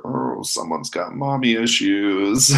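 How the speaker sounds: slow, drawn-out teasing aside; mock muttered jibe. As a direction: draw it out as a sly dig. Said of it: "he kinda mutters, like".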